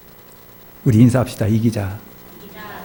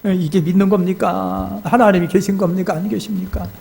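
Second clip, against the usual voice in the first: put-on tearful drunken complaint; 7 semitones higher than usual. Drunk deacon protesting to his pastor about God, mock tearful. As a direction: imitate a drunk man wailing his questions. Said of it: "울다가 웃다가".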